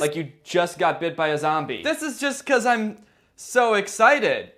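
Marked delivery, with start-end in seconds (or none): 1.8-4.5 mock excitement. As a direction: sell the lie with glee. Zombie excuses bleeding.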